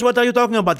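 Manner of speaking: retold protest. Retold argument, caller protests.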